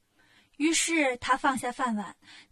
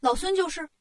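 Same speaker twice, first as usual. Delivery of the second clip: higher, sprightly Monkey King; cocky Wukong; 4 semitones higher than usual. Acted. Wukong pops out before the king, brightly self-announcing. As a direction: announce yourself with a bounce.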